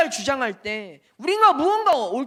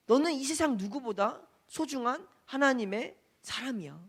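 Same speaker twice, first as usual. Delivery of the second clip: tender gospel voice. Acted. Gospel speaking lovingly to child.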